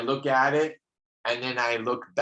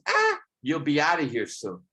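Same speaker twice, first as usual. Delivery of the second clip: higher comedian impression, lightly done; mock comic heckle, pitched up; Larry David; 4 semitones higher than usual. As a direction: imitate a comedian, opening on a high squawked "Ah". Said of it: "the voice is of Larry David".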